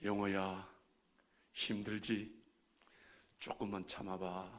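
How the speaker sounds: low, slow and soft, comforting Youngho; gentle God's voice. Pretend. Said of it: "하나님의 음성이 들립니다". (낮고 느리게 위로하는 하나님 목소리)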